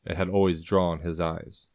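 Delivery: ordinary delivery, nothing marked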